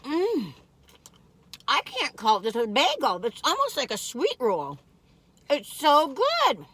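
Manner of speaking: talking while crunching food; words through a crunchy bite. Real, not acted. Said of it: "Can you hear me crunching?".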